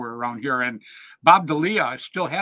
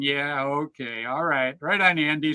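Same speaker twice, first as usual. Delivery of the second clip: slow, lower, drawn-out yeah-sure; mock agreeing; 3 semitones lower than usual. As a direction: humour him, slowly, half believing. Mock agreement with Andy's warning.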